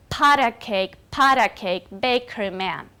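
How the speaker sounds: nursery-rhyme beat landing on "Pat" and "bake"; dactylic stress. Shown as a demonstration. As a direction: stress the "Pat" of each "Pat a cake" and the "bake" of "bakery man". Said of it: "The first one in each feet is a stress".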